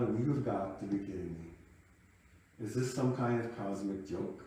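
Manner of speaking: slow, drawn-out exasperation; slow, spell out the cosmic joke; mock-exasperated aside to the sky; exasperated disbelief. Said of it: "I did say out loud".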